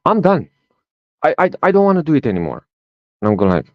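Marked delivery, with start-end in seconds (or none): 0.1-2.6 put-on high, fast childish whine; whiny little girl. Daughter refusing to keep picking nuts, high whiny child voice. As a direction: rush it like a fed-up toddler.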